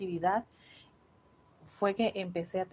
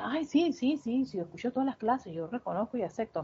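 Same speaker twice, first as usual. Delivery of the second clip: autocomplaciente; 3 semitones higher than usual. Retold or imitated. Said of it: "Y uno piensa".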